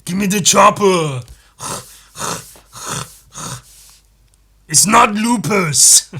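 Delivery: put-on slow, loud Austrian-accented boast; Arnold as House. Arnold-House defending himself to a colleague, slow Austrian accent. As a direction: drag out the Austrian vowels proudly. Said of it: "House if it was played by Arnold".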